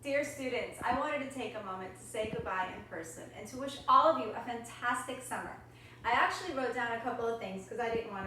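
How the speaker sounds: soft, sincere farewell read from notes; teacher says goodbye to her students in a clip, soft and sincere; recorded goodbye message. Real, not acted. Soft recorded farewell.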